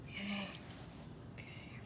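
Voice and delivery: very soft, grudging agreement; reluctant compliance. Acted. Writer told by agent to surrender evidence, quiet reluctant agreement. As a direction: give in under your breath. Told to hand over necklace.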